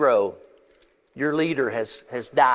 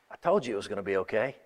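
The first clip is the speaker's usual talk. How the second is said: gentle aside; 5 semitones lower, 6 dB quieter, much faster than usual. Acted. God thinking to himself.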